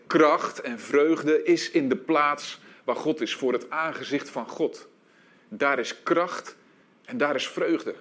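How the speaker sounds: slow, solemn scripture reading. Acted. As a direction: linger on each phrase reverently. Quoting David's psalm slowly.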